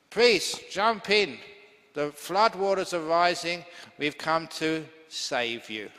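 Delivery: calling out loud over the floodwaters; shouting from the boat. Acted. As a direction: shout up to the priest on the roof. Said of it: "the rescue boat shouted out".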